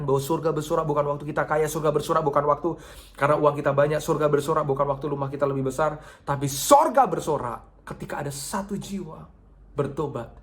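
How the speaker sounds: rising sermon rhythm, repeated phrase hammered; preaching build. Acted. Pastor preaching to the congregation, building up. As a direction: build the refrain toward the climax.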